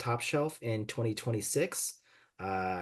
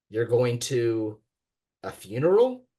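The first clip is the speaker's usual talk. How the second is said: teasing cousin; 5 dB louder than usual. Acted. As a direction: tease her gently over the slip. Cousin teases a language slip.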